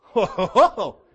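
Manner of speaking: loud, high "ho, ho, ho"; big hammed-up "ho-ho" reaction; mock whooping laugh. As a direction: belt out a staged laugh. Mock reaction to the dinner insult.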